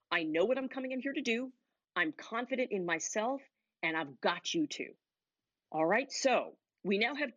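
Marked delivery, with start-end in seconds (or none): 0.1-4.9 confident. Shown as a demonstration. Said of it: "communicating clarity, confidence, and command".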